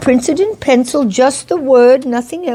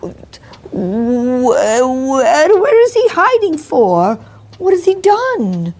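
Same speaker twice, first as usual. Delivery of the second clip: fearful stammer; 2 semitones higher than usual. Acted. Landlady stammering in fear.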